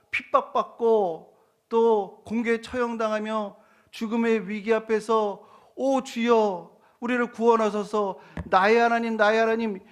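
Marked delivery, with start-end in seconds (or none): 5.7-9.8 loud, high plea to God; acted desperate prayer, raised and loud; crying out. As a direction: cry out to God for rescue. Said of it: "부르짖고 있는데".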